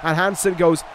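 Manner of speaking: rising, excited ringside call; wrestling commentator. Acted. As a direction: build hype through the pin count. Live play-by-play of finisher and save.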